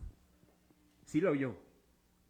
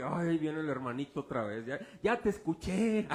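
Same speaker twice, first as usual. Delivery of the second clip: grumbling; 5 semitones lower than usual. Pretend. Lightly voiced bored churchgoer grumbling at the preacher. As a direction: mutter like a bored listener. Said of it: "Un rezongar y".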